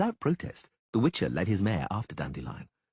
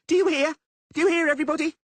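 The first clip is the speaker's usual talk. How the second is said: high and louder, calling to all; shouting to the crowd; 7 dB louder, faster than usual. Acted. Blonde woman shouts to the crowd about Dandelion. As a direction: make the whole street hear.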